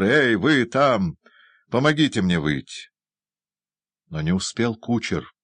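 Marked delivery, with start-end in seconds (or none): 0.0-2.9 calling out. Acted. Doctor calls to the coachman.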